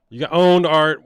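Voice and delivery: loud, high mock taunt; mock gloating. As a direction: crow it loudly on the video maker's behalf. Mock gloating at the criticised commenter.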